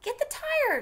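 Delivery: high, loud holler; big brother hollering orders. Acted. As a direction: bark the order from afar. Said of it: "Jem hollered".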